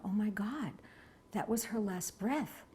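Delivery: hushed whispered thought, slowed; softly whispered disbelief; awed whisper. Real, not acted. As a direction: breathe it out in shock. Realizing the woman has died.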